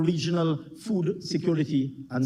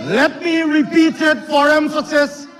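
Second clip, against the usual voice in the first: raised, insistent speech-making; forceful parliamentary oratory; 5 semitones higher than usual. Real, not acted. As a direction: project it firmly over the chamber. Insistent speech over heckling in parliament.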